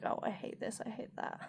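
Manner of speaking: softly grumbled, near whisper; half-whispered moaning; muttered complaint. Retold or imitated. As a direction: mutter it to yourself. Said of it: "I've been like".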